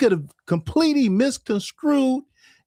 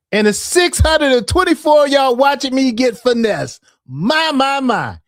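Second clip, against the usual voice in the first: mock outrage; 4 semitones higher, 5 dB louder than usual. Real, not acted. Mock dismay at live count.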